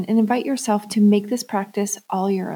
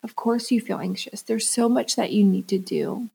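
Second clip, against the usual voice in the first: softer, soothing reassurance; validating; 6 dB quieter than usual. Retold or imitated. To her anxious inner child, soft and soothing. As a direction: soothe a worried child, softly. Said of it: "I validated where she was".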